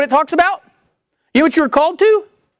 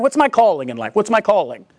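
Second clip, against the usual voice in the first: lower, mildly acted musing; wondering; 4 semitones lower than usual. Believer sitting there wondering about their calling, mildly musing. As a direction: lightly voice someone puzzling to themselves. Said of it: "Sitting there wondering".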